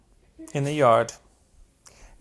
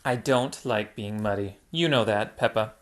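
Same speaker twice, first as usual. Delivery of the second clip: a hint of a lower, fussy girl refusing mud; Hannah's voice; 4 semitones lower, 4 dB quieter than usual. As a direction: pull back from the mud hug.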